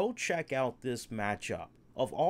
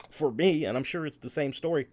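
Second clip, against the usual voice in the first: talking through hiccups; hiccuping; 4 dB louder, faster than usual. Real, not acted. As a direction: hiccups breaking the words. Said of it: "excuse me if I'm hiccuping".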